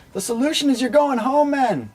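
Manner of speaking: high-pitched mock African accent; crazy African accent. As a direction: imitate an official laying down the rule in a high African accent. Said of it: "they got this crazy African accent".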